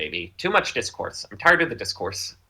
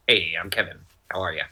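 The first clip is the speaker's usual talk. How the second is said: lightly imitated co-host, lower pitch; low, casual mimicry of a co-host; Kevin; 5 semitones lower, 3 dB quieter than usual. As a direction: do a rough impression of your friend, low and trailing. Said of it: "I don't know how to describe it".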